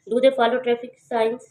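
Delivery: slow yes-no question stressing do. Shown as a demonstration. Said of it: "इसमें हमने do पे stress किया है".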